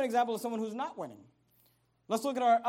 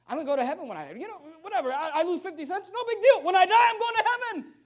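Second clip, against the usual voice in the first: rising to a laughing, much higher and louder cry; exult, laughing as it peaks; excited; 9 semitones higher, 11 dB louder than usual. Acted. Preacher exults about heaven.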